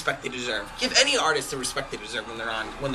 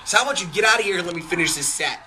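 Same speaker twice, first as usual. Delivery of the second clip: pissed off musician; 4 semitones higher than usual. Retold or imitated. Lead singer to a drunk heckler, pissed-off telling-off. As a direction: act out a fed-up singer delivering his zinger. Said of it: "from a pissed off musician".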